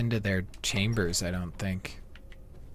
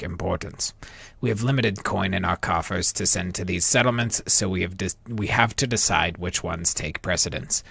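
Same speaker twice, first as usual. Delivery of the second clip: put-on Dark Elf accent. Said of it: "my Dark Elf voice got stronger as we progressed".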